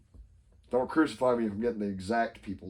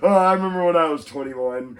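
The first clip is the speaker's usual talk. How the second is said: mock indulgent; 4 semitones higher, 6 dB louder than usual. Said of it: "everyone's like".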